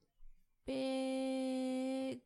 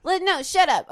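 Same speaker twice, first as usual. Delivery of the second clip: laughing protest; 8 semitones higher, 12 dB louder than usual. Real, not acted. Laughing at friends' teasing.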